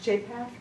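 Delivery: "Japheth" as JAY-peth, questioning rise; unsure pronunciation. Real, not acted. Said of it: "I'm sure I'm not pronouncing it right".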